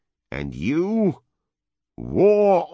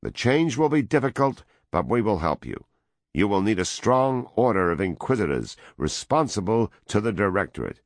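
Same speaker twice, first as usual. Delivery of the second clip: loud, higher dictatorial demands; raised voice; 6 semitones higher, 3 dB louder than usual. A narrator's reading. American envoy dictating terms to the woman, loud and high. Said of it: "the American raised his voice".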